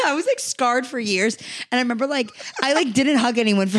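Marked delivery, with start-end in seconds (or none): 0.0-1.4 laughing. Real, not acted. Laughing through the story.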